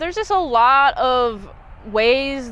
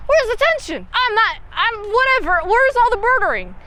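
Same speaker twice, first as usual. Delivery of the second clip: bewildered viewer; 3 semitones higher than usual. Retold or imitated. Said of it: "and I'm like".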